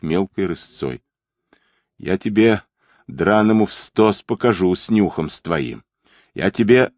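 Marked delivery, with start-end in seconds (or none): none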